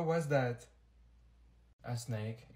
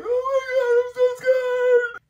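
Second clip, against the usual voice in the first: high, loud, whimpering fake fear; mock scared; 6 dB louder, slower than usual. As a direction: squeal it like a kid about to ride. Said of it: "I sat down and I was like".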